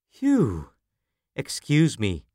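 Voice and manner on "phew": panting after a run; winded, catching breath between words. Acted. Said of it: "I'm out of breath".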